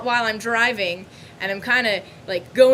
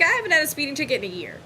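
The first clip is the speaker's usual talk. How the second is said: rushed protest; 3 semitones higher, faster than usual. Retold or imitated. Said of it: "And I'm like".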